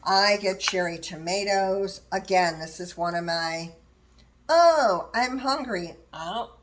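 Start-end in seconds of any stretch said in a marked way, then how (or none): 4.5-6.0 hungry exclaim. Retold or imitated. Acted snacking craving.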